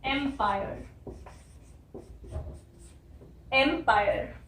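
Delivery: एम्पायर said slowly, em-pai-ur; pron demo. Shown as a demonstration. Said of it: "इसलिए हम बोल रहे हैं एम्पायर". (एम्पायर का सही उच्चारण)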